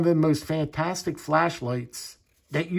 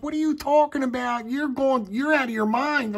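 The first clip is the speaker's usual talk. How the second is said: imitating wife; 9 semitones higher than usual. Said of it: "She's like".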